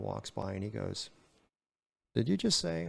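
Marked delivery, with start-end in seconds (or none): 2.1-2.9 surprised captain. Retold or imitated.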